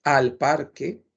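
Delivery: "al parque" drawn out slowly; slow model phrase. Shown as a demonstration. Teacher models "al parque" slowly for the class. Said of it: "podríamos decir".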